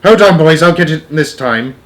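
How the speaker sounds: high, loud comic alarm; startled shouting. A narrator's reading. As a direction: shout in a fluster to your mates. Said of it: "the cook shouted".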